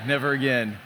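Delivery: never again through a laugh. Real, not acted. Pastor to congregation, laughing at the memory. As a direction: laugh it out, rueful.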